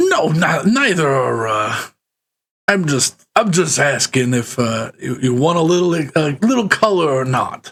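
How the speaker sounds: put-on New York accent. Asking travelers what kind of place they want to stay, in a new york accent. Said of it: "Do your best New York accent".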